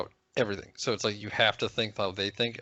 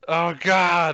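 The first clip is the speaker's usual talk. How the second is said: snooty voice; 6 semitones higher, 7 dB louder than usual. Retold or imitated. Snooty exclamation again.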